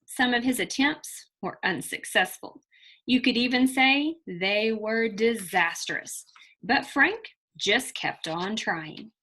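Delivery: put-on lively read-aloud storytelling for children; expressive children's story reading; story narration. A narrator's reading. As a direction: read it like a picture book to a class. Teacher reads picture book aloud.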